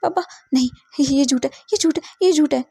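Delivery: high, loud cry of disbelief; boy wakes yelling that his parents' death is a lie; screaming in denial. Acted. Boy wakes from grief, screaming denial loudly. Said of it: "एक जोर से चिल्लाने के साथ".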